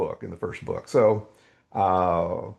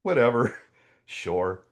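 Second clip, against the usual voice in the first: offhand, half-laughing shrug; casual retold brush-off with a small laugh; nonchalant; 3 semitones higher than usual. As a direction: toss it away as if it hardly matters.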